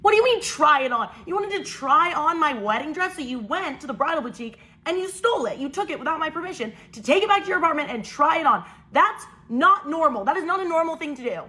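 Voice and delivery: incredulous, scolding, mildly heated; going off on her. Retold or imitated. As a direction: replay an outraged telling-off of a sister. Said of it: "I immediately start going off on her".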